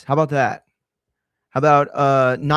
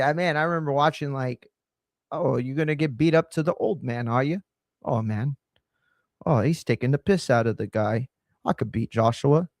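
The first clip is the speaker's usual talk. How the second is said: a loose, quick British accent impression. Host imitating Dubois's trash talk in British accent. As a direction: put on a mock British accent, lightly. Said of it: "That's my British accent".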